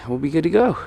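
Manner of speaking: breathless from working on the car; out of breath. Real, not acted. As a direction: talk between breaths while working. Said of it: "Sorry I'm gonna be out of breath this whole damn video".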